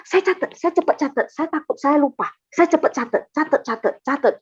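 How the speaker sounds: quick, repetitive, mildly panicked scramble; retold hurry. Churchgoer retells scrambling to write down the voice, hurried. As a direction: rattle it off as if racing to note it.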